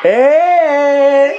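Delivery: short loud cheer; mock cheer. Comedian faking the crowd's cheer, loud short yelp. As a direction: shout it like a fake fan.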